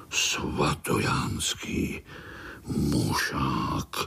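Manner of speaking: slow, low, unvoiced and menacing; ominous whisper. A narrator's reading. Narrator repeats the dreaded name to scared spiderlings, slow ominous whisper. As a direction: breathe the name like a dark threat. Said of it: "Zaznělo to tak hrozivě".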